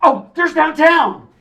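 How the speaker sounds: surprised exclaim. Retold or imitated. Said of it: "Jane goes".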